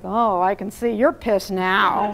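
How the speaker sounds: slow, mocking, insincere validation with a laugh; sarcastic parent brushing off the kid; cheesy fake empathy. Shown as a demonstration. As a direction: say it like you don't mean it. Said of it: "from a cheeseball place of".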